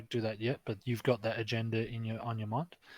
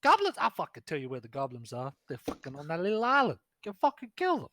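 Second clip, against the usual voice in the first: high, loud sassy ranting woman; sassy woman npc; 4 semitones higher, 3 dB louder than usual. Acted. GM voicing the dancer, ranting to the players in a high brassy voice. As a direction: rant about goblins in a shrill high voice. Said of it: "She's like".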